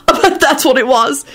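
high, gleeful remark; delighted. A narrator's reading. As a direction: say it gleefully, just after laughing. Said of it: "he said delightedly".

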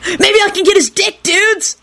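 very high, gleeful squeal; happy yelp. A narrator's reading. Kenny has a bright idea, yelping happily. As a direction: yelp it with sudden glee. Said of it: "he yelped happily".

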